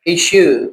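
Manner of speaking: इशू ending in an "oo" sound; final oo sound. Shown as a demonstration. Teacher shows how final U sounds, final oo sound. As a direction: let the end of इशू ring as oo. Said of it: "ये थोड़ा सा ऊ की sound देता है".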